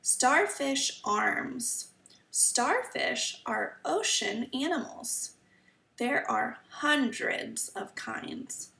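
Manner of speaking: slow, careful storybook reading; reading to children. Acted. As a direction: read each sentence slowly for kids. Reading the book aloud.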